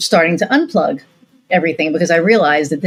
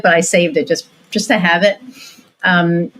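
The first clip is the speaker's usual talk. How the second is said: ordinary talk, nothing marked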